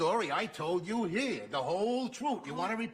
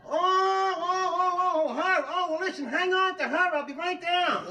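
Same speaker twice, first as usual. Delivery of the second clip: suddenly all eager to come down; eager excitement; 10 semitones higher than usual. Acted. Husband hears the grateful lady arrived.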